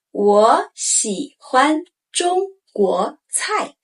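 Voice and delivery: 我喜欢中国菜 slowly; slow model sentence. Shown as a demonstration. Teacher modeling the sentence, slow. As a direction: spell out each tone. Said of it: "We use it often".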